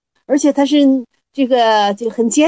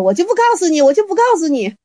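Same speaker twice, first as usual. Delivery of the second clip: put-on raised, teasing childish refusal; stubborn refusal; 5 semitones higher, faster than usual. Teacher refusing the student, high and teasing.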